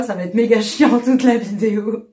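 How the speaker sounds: hoarse, worn-out voice; lost voice. Real, not acted. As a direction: voice gone from shouting. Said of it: "j'ai vraiment plus de voix".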